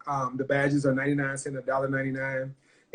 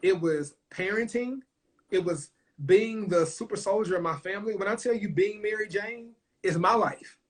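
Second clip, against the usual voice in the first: pouring out her struggles, higher and strained; raw emotion; 5 semitones higher than usual. Real, not acted. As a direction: voice pushed higher, close to tears.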